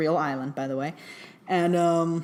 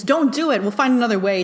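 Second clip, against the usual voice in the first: higher, louder, imitating a worried young man; a light imitation of anxious pleading; mock anxious plea; 5 semitones higher, 4 dB louder than usual. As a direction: play it as a nervous plea, half in jest. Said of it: "the, like, anxious tone".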